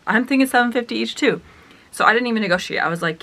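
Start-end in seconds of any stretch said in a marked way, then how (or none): 0.1-1.4 higher, delighted inner thought; gleeful echo. Retold or imitated. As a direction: echo the price back, secretly thrilled. Delighted echo of dad's price.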